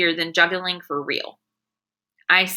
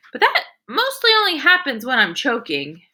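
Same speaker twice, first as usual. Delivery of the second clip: put-on higher, matter-of-fact kid voice; earnest little boy; 5 semitones higher than usual. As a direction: say it innocently like a small boy. Sheldon voiced.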